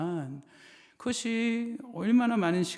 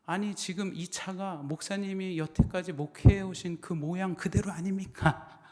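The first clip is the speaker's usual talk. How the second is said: higher-pitched, mildly heated comeback; acted-out exasperation, pitched up; exasperated retort; 4 semitones higher than usual. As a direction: retell a young pastor's indignant protest. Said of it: "어이가 없고 막 그래서".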